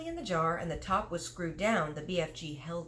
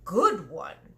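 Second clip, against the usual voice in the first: louder and slow, proud giant; cried out; 6 dB louder, slower than usual. Acted. Giant answering Sophie's question, proud louder cry. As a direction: call it out with pride. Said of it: "he cried".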